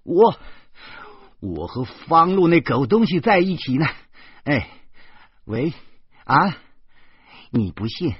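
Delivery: loud, high, irritated yell into the phone; grumpy yelling. A narrator's reading. 诗谦 yells crossly into his ringing phone, annoyed and loud. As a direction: bark it out, fed up. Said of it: "没好气儿地嚷嚷着说".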